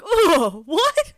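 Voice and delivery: high startled squeak; mock shock then grudging agreement; surprised. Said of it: "I'm like".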